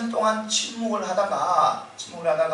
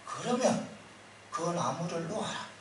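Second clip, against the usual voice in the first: voice of God; 4 semitones lower, 10 dB quieter than usual. Retold or imitated. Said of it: "하나님께서 말씀하니".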